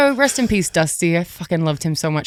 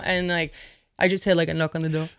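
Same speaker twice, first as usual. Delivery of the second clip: ordinary talk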